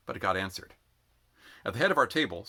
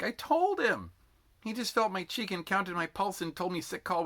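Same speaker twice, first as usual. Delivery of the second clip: high, aggrieved complaining rant; 9 semitones higher than usual. A narrator's reading. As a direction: whine it out, seething. Sick recruit rants about sergeant.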